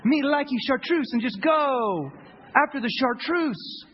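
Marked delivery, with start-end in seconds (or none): 0.0-1.1 slow, dopey fish voice; dumb fish. Pretend. The fish spots the bait, a lightly voiced dopey fish. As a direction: play a simple-minded fish drooling over bait. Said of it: "the fish is like".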